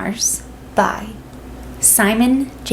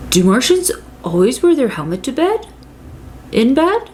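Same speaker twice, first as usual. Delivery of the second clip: dad voice; 4 semitones higher than usual. A narrator's reading. Dad tucks him in.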